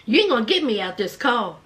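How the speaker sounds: low, fast imitated refusal; low defiance. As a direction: refuse quickly in a dropped voice. Sister's first, low refusal.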